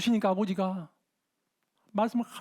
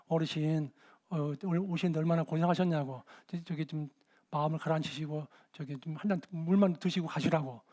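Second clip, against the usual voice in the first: soothing; 5 semitones lower, 4 dB quieter than usual. Retold or imitated. Pastor calming the old man.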